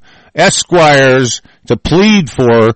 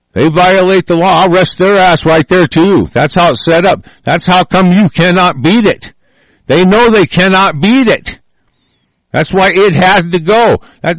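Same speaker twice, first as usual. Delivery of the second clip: furious; 7 semitones higher than usual. Real, not acted. Ranting to viewers about rigged courts, real fury. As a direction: shout it out, real outrage at the courts. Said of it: "I'm, I'm furious".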